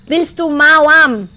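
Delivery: slow, drawn-out offer; slow teasing question. Acted. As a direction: dangle the offer slowly. Teasing the ghost slowly.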